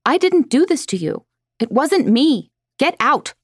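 high, loud frightened cries; panicked yelling. A narrator's reading. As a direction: yell in terror, pleading.

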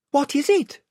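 put-on high girl's voice; Lucy. A narrator's reading. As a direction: ask in a light, high-pitched voice. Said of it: "said Lucy".

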